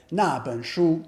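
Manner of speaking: 那 falling in fourth tone. Shown as a demonstration. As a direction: say 那本书 with 那 falling quickly. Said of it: "I can point to it and say".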